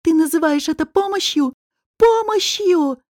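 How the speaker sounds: high, indignant exclamation; incredulous outrage. Acted. Woman challenges her attacker's claim of help, outraged. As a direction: climb in pitch, drawing out the repeat.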